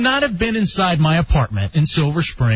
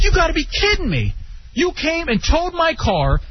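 outraged shout; 9 semitones higher than usual. Retold or imitated. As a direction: shout it, fed up. Retelling the outrage again.

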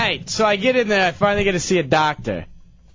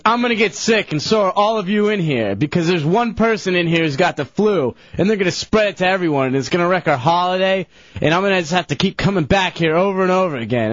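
mildly raised mock griping; bitching; 3 semitones higher than usual. Storyteller imitating lady bitching in the ER, mild mock griping. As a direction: imitate a complainer running on and on. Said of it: "So she's bitching, and she goes".

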